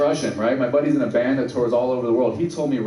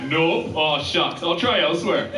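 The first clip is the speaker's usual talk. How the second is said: put-on Minnesota accent; slower than usual. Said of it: "I can't picture anyone in Saint Cloud".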